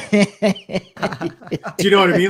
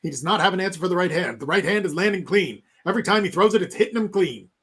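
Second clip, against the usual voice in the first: put-on fast, higher old-timey fight call; old radio announcer; 5 semitones higher, faster than usual. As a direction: call the blow by blow like vintage radio. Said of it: "old-timey radio announcer broadcasting a boxing match".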